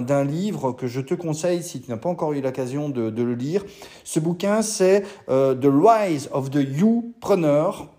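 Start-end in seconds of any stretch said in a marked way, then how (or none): 5.5-7.9 slow English title in a thick French accent; self-mocking French-accented English. Real, not acted. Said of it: "T'as vu mon magnifique accent".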